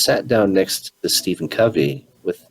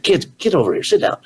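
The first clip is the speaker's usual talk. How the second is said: mock call to the kids, higher pitch; calling kids over; 9 semitones higher, faster than usual. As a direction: call the children back, lightly acted. Father calls his kids over.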